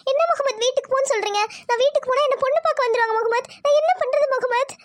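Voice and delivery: helpless tearful protest; plead, slowing into sobs at the end; acted upset, crying after the last words. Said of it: "அழுகாத ஐஷு, நீ அழுதா".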